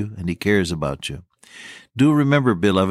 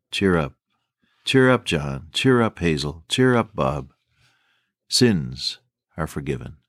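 low, gentle cheer up to each name; Jesus comforting the congregation gently; tender assurance; 4 semitones lower than usual. Acted. Jesus voiced tenderly to listeners.

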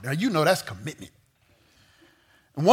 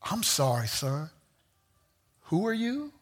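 quiet judge; 9 dB quieter than usual. Retold or imitated. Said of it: "he's gonna say".

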